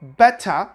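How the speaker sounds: "better" with a clear T and schwa ending; crisp T in "better", no final R; pronounced T. Shown as a demonstration. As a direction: say "better" as "beh-tuh". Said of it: "with the schwa sound at the end".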